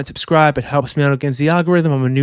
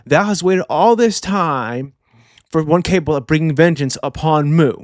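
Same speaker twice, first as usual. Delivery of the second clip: Imu. Retold or imitated. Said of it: "He tells Ragnar".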